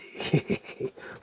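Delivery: soft high giggle. Real, not acted. Host tickled by the cereal box, soft giggle. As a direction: giggle quietly to yourself.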